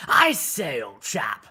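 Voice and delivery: hammy, high-pitched English accent; Winston Churchill. Shown as a demonstration. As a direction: put on an exaggerated old English gentleman's accent. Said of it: "a Winston Churchill".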